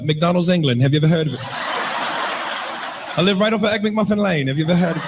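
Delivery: mock English accent, bluffing casually. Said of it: "English accent, that just roll off the tongue different".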